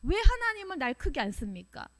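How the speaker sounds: high, heated string of protests; angry complaining. Acted. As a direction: build from complaint to a high-pitched outburst. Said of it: "이렇게 화내죠".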